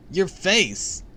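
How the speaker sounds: high, loud cry of horror; horrified cry. A narrator's reading. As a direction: cry out aghast at the sight. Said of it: "he cried".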